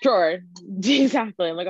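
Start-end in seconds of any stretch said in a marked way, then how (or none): 0.0-0.4 loud one-syllable "Drawer"; own drawer pronunciation. Shown as a demonstration. Agreeing with cohost's teasing spelling, loud one-syllable Drawer. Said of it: "I don't emphasize it".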